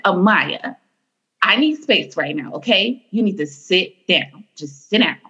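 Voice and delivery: lightly imitated stern but calm mom; mild, controlled mock-stern telling-off; fake stern voice. Calm mom correcting her child Amaya, lightly put-on stern voice. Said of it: "put on her fake, like, stern voice".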